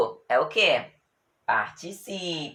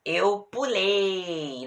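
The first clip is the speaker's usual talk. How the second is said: slow example; 4 semitones higher, much slower than usual. Shown as a demonstration. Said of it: "é o futuro do pretérito".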